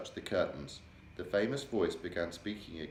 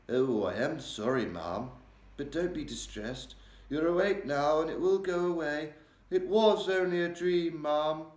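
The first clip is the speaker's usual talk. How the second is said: high, gentle servant reassuring; comforting maid; 8 semitones higher, 5 dB louder than usual. A narrator's reading. Maid reassuring the Queen after her nightmare, gentle. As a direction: soothe the Queen kindly and respectfully.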